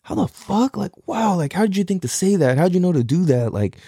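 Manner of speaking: retold amazement. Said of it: "I'm like".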